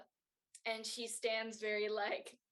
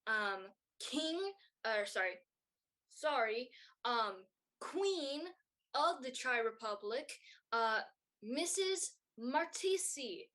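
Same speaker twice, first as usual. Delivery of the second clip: royal announcer; 3 semitones higher than usual. Acted. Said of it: "the royal announcer turns to".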